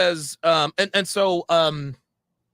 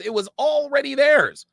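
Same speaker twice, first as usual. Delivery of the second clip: "theirs" pitched high and loud, then falling; stress on THEIRS; 9 semitones higher, 4 dB louder than usual. Retold or imitated. Arguing with a friend over a video, insistent stress on "theirs". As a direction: drive the point home on "theirs". Retold argument, repeats point harder.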